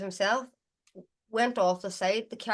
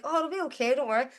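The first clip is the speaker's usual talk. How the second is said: mock reassuring; 5 semitones higher, faster than usual. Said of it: "So I was like".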